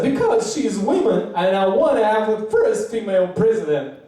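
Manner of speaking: imitated crying voice; a singer. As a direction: sob out the reason, hammed up. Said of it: "super crying".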